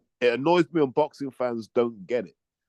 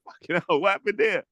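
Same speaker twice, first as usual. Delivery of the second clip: mock shock; 6 semitones higher than usual. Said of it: "I'm like".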